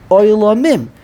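"Olamim" with a clear secondary stress on the first syllable "o"; ayin emphasized. Shown as a demonstration. Teaching the student how to say "Olamim", stressing the ayin. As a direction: lean on the ayin in "Olamim", then land on "mim". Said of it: "Ayin gets its limelight".

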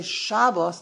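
"Shabbos" stressed on the beginning; Yiddish pronunciation. Shown as a demonstration. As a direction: put the weight on SHA in "Shabbos". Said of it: "emphasis is on the beginning".

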